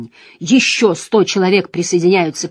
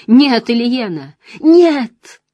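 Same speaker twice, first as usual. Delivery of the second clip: rising cry of denial; anguished scream; 5 semitones higher, 7 dB louder, much slower than usual. Acted. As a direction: scream no in grief. Husband grieving over wife.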